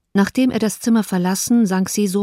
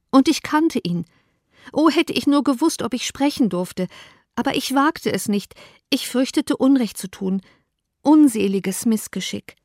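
higher-pitched, anguished self-reproach; anguished Elizabeth; 6 semitones higher than usual. Acted. Elizabeth confessing her silence to Darcy, anguished. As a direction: wring out the regret.

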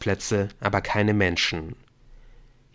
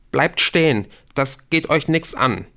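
higher, tense order to halt; trembling voice; 6 semitones higher, 4 dB louder than usual. A narrator's reading. Rashid blocks the others' way on the stairs, trembling. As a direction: warn them off, nervous and raised. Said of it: "Rashids Stimme auch".

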